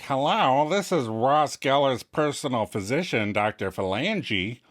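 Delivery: a hint of a posh fake voice. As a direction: put on a fake doctor's voice. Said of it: "she's using a fake voice".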